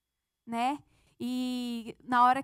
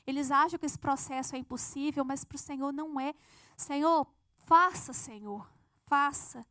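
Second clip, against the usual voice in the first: fervent prayer; 4 dB louder than usual. Retold or imitated.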